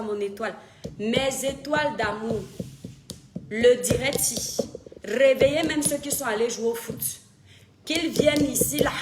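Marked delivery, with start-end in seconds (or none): 3.5-8.9 loud summons to an audience; rallying call. Real, not acted. Streamer waking absent viewers for the live, loud rallying call. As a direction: call everyone in at full voice.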